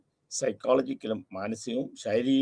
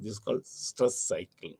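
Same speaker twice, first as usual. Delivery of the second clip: slow dictation; 5 dB quieter, much slower than usual. Acted. Teacher dictates key definition.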